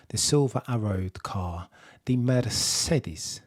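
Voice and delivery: put-on muddled Italian-French accent. Host introduces the German team in a stray Italian-French accent. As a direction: stretch the car's name in a vague continental accent. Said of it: "doing an Italian or French accent".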